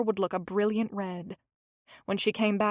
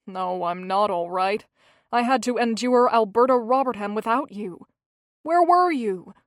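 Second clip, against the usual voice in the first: hammed-up complaint, rising louder; mock dramatic moaning; 5 dB louder than usual. Gilbert to Hazel about Alberta, mock dramatic moan. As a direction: play the martyr for a laugh. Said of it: "He moaned dramatically".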